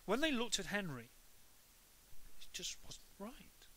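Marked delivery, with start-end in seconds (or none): 2.4-3.7 hushed whisper; whispered aside. A narrator's reading. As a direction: breathe it like a secret. Eerie narration aside.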